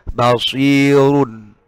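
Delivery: very slow Basirun with a thick r; heavy r in Basirun. Shown as a demonstration. Teacher showing thick r when the word is not paused. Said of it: "otomatis tebal".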